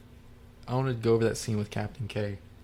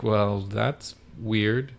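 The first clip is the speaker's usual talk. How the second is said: drawn-out, slow puzzlement; acted slow-dawning doubt; puzzled reaction; 4 dB louder, much slower than usual. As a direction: stretch the words out, acting baffled. Jojo puzzled by the news.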